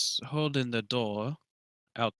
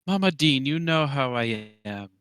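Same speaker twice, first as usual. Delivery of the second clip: calling across; 3 semitones higher, 6 dB louder than usual. Pretend. Player hailing the dean from across the statue, loud call. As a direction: call out loudly, then ease off. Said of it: "kinda shouting from across the statue".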